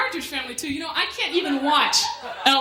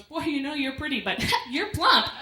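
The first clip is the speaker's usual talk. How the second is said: mock saleslady. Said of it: "the lady came up to you and goes".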